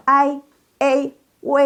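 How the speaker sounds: I, A, W as ai, ei, wei, high and level; model diphthongs. Shown as a demonstration. Teacher models the second group of sounds, high and sustained. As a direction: hold each glide on a high level pitch. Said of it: "Yuk, baca".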